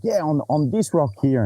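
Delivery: tossing it off like it's nothing; Ricky's casual reveal. Retold or imitated. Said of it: "he's like".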